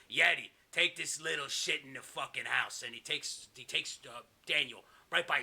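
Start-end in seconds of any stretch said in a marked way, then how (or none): 0.1-2.8 slow, lightly voiced villain order; mock boss commanding henchmen; a touch of menace, drawn out; Kevin Sullivan. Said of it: "Kevin Sullivan goes".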